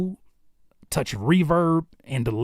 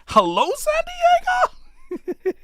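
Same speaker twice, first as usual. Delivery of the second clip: Ron Burgundy anchorman bit; 4 dB louder than usual. Pretend. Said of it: "am I Ron Burgundy".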